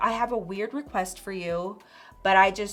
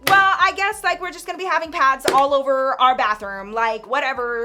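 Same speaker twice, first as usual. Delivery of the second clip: higher, sarcastic and fed up; pissed-off rant; 4 semitones higher, 5 dB louder than usual. Retold or imitated. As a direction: toss it off in an angry huff. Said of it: "Girl, she was so pissed".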